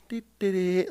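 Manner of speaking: soft, light dee-dee-dee; idle little sing-song to yourself; carefree humming. Retold or imitated. Recruit on trash duty walking back, carefree humming.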